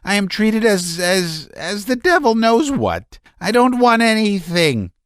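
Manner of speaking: high, strained, near hysterical; shouting Laevsky. A narrator's reading. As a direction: rant at the meddlers. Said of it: "shouted Laevsky".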